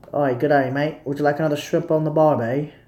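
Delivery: lightly attempted Australian accent; bad Australian accent. Streamer jokingly greeting Australians, in a weak Australian accent. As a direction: have a half-hearted go at Australian. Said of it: "can't even do that accent".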